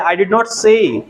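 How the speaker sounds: "did not" in full, "say" unglided. Shown as a demonstration. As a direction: say "did not say" word by word with plain vowels. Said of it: "हम बोलते हैं".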